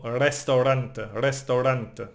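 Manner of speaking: Restaurante with a rolled Spanish r. Shown as a demonstration. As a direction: trill the r in Restaurante. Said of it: "try to roll it".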